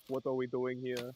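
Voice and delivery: a hint of slow Austrian action-hero accent; slow, lightly voiced Austrian tough guy; Arnold impression. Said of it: "Arnold, kinda Austrian".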